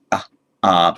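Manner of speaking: ah, ah with the vowel held long; long vowel demo. Shown as a demonstration. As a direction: stretch each ah out to show a long vowel. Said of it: "lengthen it".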